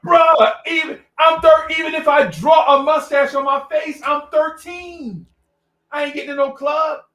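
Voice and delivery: loud, high-pitched incredulous protest; exasperated shouting. Retold or imitated. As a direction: imitate a kid yelling at clueless adults. Kid argues about fake ID.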